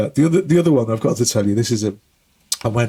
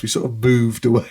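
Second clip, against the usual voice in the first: whispered aside. Real, not acted. Embarrassed aside.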